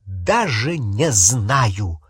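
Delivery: slow, drawn-out sarcastic reply; biting sarcasm; heavy sarcasm. Acted. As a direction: lay the sarcasm on thick. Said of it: "с жутким сарказмом ответила Гермиона".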